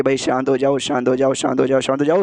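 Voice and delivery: low-pitched, repeated soothing plea; calming down. Retold or imitated. Soothing the angry queen, low-voiced calming. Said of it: "वो शांत करती है कि".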